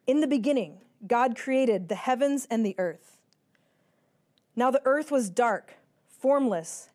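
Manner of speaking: solemn, measured scripture reading; booming biblical narration. A narrator's reading. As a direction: read it like a pulpit Bible reading. Reads Genesis one aloud.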